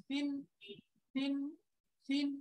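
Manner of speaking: "সিন" with a soft th-like s; tongue tip at upper teeth tips for "সিন"; soft sa sound. Shown as a demonstration. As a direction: say each "সিন" softly articulated, separately. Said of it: "নরম করে".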